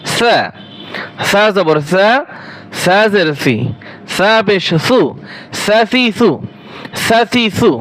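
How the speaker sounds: সা with the tongue tip at the upper teeth, a soft th sound; soft lisped সা like English th. Shown as a demonstration. Teacher showing students the soft Arabic সা, said slowly. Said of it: "সা হরফ নরম করে পড়বেন".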